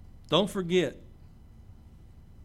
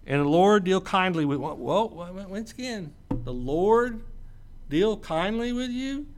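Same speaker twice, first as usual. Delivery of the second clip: incredulous repeat; 3 semitones higher, 4 dB louder than usual. Acted. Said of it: "what kind of fool person would say".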